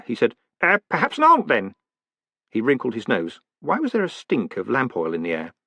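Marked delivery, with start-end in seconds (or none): 0.6-1.7 high, loud hesitant reply; nervous offer. A narrator's reading. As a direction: fumble a polite answer.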